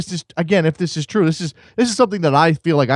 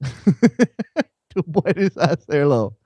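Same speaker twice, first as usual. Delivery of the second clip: laughing mock rallying cry; much slower than usual. Laughing repeat of quote.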